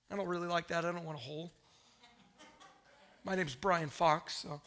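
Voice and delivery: low, soft grumble; muttered aside. Acted. Preacher grumbling aside about the verse, low and quiet. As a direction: drop it down under the main reading.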